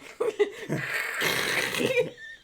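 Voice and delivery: mouth-made crackling static; voiceless imitation of static; static noise. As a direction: hiss and crackle like radio static. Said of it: "it comes out like static".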